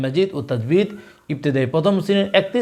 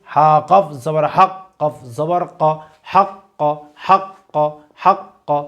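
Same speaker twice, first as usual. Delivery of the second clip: teacher's recitation, letter by letter; slow spelling drill; much slower than usual. Shown as a demonstration. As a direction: spell each letter slowly, then say the word thrice. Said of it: "আপনারা আমাদের সাথে repeat করার চেষ্টা করুন". (ধীরে বানান করে তিনবার উচ্চারণ)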